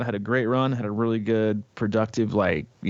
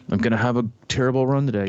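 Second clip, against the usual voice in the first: a little higher and quicker, moping "terrible run today"; mock gloomy self-talk; 4 semitones higher, faster than usual. Podcast host mimics a negative runner, quick mock gloom. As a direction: quote the doom-saying runner, fast and glum. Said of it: "You know".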